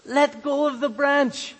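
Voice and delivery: voice of the Lord. Acted. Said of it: "And the voice said".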